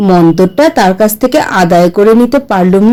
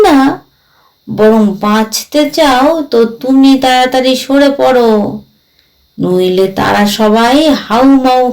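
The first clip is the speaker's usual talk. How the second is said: lightly voiced ghost, stubborn. Ghost refuses to leave the empty house, lightly voiced and stubborn. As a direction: dig in stubbornly, stretching phrase ends.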